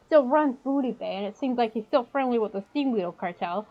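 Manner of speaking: put-on goblin with a New York accent; fast-talking New York goblin dealer. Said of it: "Trying to do the New York accent".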